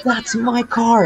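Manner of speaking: high, slow, dragged-out outrage; mock angry owner. Owner finding his car towed, slow mock outrage.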